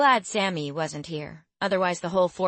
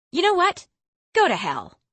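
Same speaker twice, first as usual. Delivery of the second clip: much higher, loud furious snap; angry outburst; 10 semitones higher, 6 dB louder than usual. A narrator's reading. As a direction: spit it out and storm off. Girl explodes at tutor.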